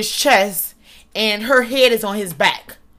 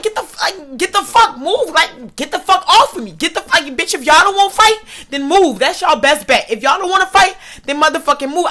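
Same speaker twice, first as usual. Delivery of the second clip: raised pitch, acting out an angry standoff; retold fighting words, higher and insistent; heated retort; 5 semitones higher than usual. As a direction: order them out of the way, worked up. Retold quarrel with the coaches.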